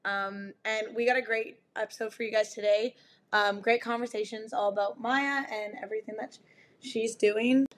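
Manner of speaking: raspy, worn-out voice after yelling; hoarse from screaming. Real, not acted. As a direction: talk through a hoarse, shredded throat. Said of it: "if I sound like I smoke sixty cigarettes a day".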